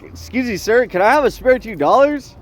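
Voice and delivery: lightly put-on pleading question, rising at the end; mock polite begging. Imitated homeless person asking a passer-by for money, mock polite begging. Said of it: "Or he'll be like".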